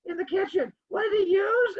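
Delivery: high, excited quiz questions; mock game show host. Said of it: "I'm like, playing a really bad version of Clue".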